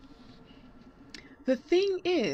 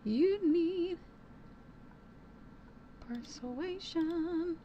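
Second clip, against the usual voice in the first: dramatic announcer; 7 semitones higher, 6 dB quieter, much slower than usual. Pretend. Dramatic echo of game option.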